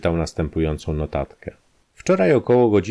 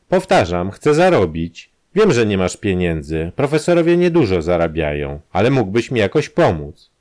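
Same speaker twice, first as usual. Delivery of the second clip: louder, insistent crook; lightly voiced blackmailer, pushing; Kramer's voice; 5 dB louder than usual. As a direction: press the demand home.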